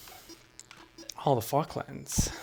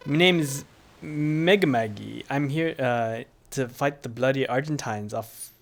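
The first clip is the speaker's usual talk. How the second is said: rough, put-on Scottish-British accent; attempted British accent; slower than usual. Islander introducing herself to the visitor, shaky British accent. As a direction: fumble a British accent in character. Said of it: "I need to figure out the British accent".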